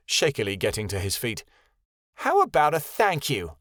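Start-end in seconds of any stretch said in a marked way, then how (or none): 2.2-3.6 screamed. A narrator's reading. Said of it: "Reagan screamed".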